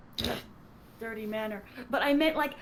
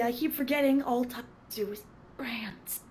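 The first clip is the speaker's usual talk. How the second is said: whispered tease. Real, not acted. Teasing whisper aside.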